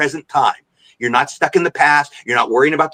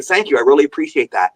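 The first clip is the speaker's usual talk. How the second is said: gracious thanks. Shown as a demonstration. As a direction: model appreciative thanks to a fan. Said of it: "You just go".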